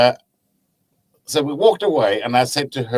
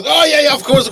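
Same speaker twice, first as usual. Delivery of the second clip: hammed-up Black Country reply, much higher and louder; Black Country accent; 8 dB louder than usual. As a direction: imitate the fisherman's eager Black Country agreement. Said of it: "the worst Black Country accent I've heard".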